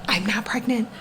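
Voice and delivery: half-whispered insistence; quiet, whispery repeat; hushed denial. Real, not acted. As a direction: say it under the breath, like a mantra.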